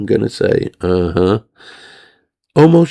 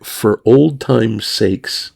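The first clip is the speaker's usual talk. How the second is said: imitating her plea; slower than usual. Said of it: "she's like".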